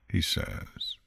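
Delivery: ordinary delivery, nothing marked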